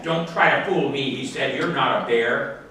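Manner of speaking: a touch of angry boss; mad foreman. Acted. Foreman threatening the bear with the manager, mildly angry. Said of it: "He was very mad".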